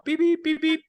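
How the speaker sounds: high mock alarm beeping; alarm beeps. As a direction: chirp it like a warning alarm. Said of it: "used car alert".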